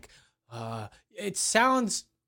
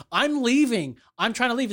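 higher-pitched whiny imitation; mock protest; 4 semitones higher than usual. Customer protesting to the cops, mock indignation. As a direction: protest it as a mimicked excuse.

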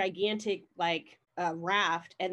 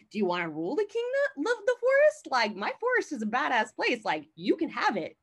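high, pleading plea for mercy; hammed-up high-voiced pleading; begging for my life; 6 semitones higher, 3 dB louder than usual. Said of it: "this man is pleading for his life".

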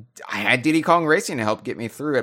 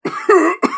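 hacking phlegmy cough; smoker's cough; 8 dB louder than usual. Pretend. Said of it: "Smokers' coughs".

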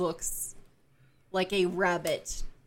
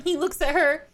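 amused build-up; 6 semitones higher, 8 dB louder, faster than usual. Real, not acted. Comic build-up of exchanged looks.

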